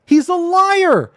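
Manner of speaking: high, loud and slow, every word hammered; slow angry verdict. Real, not acted. Denouncing the accuser.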